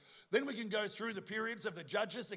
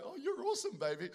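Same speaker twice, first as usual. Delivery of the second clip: put-on cooing at baby; 6 semitones higher than usual. Father cooing at newborn.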